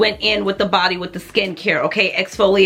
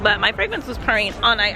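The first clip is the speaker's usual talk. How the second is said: talking while chewing gum. Real, not acted. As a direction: gum in the mouth, words round it. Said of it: "I have gum in my mouth".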